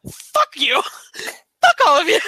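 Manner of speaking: yelling it out defiantly; defiant shout. Retold or imitated. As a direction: shout back at the crowd. Imagined crowd-defiant look, voiced.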